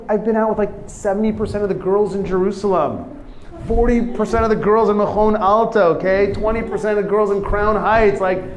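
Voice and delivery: worked-up, high-pitched lament; total despair. Acted. Rejected boy listing his failed dates, despairing. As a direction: build to a loud, insistent complaint. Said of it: "total, total despair".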